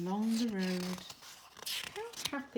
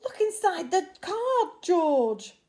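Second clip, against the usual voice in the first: high, louder urging; eager animals; 8 semitones higher, 9 dB louder than usual. Acted. Animals urging George to read the card, high. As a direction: urge him keenly, high. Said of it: "said the animals".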